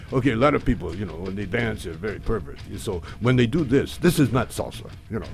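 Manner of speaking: put-on Spanish accent. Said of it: "in my Spanish accent".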